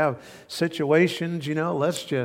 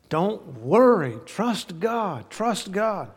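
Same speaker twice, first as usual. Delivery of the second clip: higher, slow urging to himself; David urging himself; 4 semitones higher, much slower than usual. Retold or imitated. David preaching to himself, urging in a higher voice. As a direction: coax yourself to trust.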